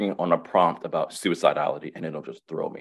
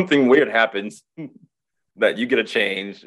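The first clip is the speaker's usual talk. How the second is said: laughing; 3 semitones higher than usual. Real, not acted. Amused at the weird effect.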